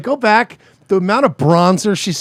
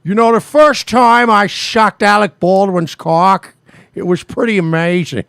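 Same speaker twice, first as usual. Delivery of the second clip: hammed-up imitation of a celebrity wife; mock Hilaria voice; 5 semitones higher, 7 dB louder than usual. Mocking Hilaria in a put-on voice.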